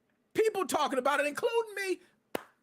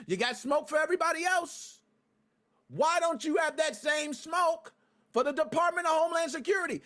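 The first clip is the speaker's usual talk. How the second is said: angry rant; 6 semitones higher than usual. Real, not acted. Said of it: "I went off a little bit".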